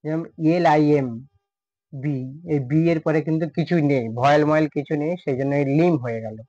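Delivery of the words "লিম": "লিম" closing on m, no b; silent B. Shown as a demonstration. Teacher showing a B with no vowel after it, "লিম" ending on m. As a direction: say "লিম" leaving the final B unspoken. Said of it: "বি এর উচ্চারণটা পুরোপুরি silent".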